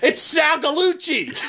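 high and slow, words breaking into laughter; can't hold back the laugh as you name him; laughing reveal. Real, not acted. Telling a friend who tripped him, laughing through the name.

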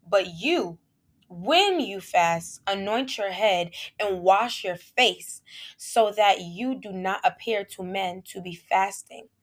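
slow, deliberate Bible reading; scripture reading. Acted. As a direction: read the verses solemnly. Reads scripture.

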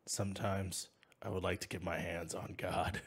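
low, soft, a hint of grim Frank; soft low grumble toward the priest; Frank Castle line. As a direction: mutter it low like a tired vigilante. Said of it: "do you wanna be Frank Castle".

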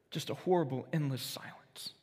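whispered, barely there; a storyteller hushing at the silence; hushed whisper. A narrator's reading. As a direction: let it fade into breath. Narrating the silence after death.

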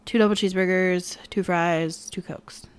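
mumbled order sinking into a whisper; near-whispered order. Retold or imitated. Customer orders at the drive-through microphone, fading to a whisper. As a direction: order food almost inaudibly.

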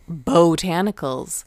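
slow BOH-tanicals with a long O; imitating host's pronunciation. Co-host teasing how the host says it, drawn-out Botanicals. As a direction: draw out the first syllable of "Botanicals". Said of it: "you always go".

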